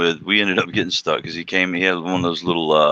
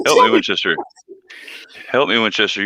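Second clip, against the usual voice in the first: pleading higher voice, half-joking; mock plea; 3 semitones higher than usual. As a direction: beg like a movie hero. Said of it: "It's all in the inflection".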